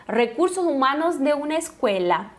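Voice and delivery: "Recursos humanos" with rolled R and un-nasal A; open A, trilled R. Shown as a demonstration. Teacher repeats the Spanish phrase, open A and rolled R. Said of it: "o A sempre mais abertinho".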